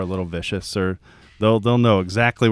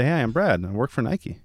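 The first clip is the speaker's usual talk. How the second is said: easy, proud, relaxed self-introduction; confident introduction; 3 semitones higher than usual. Retold or imitated. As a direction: say it like you own the job. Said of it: "How do you think they say it?".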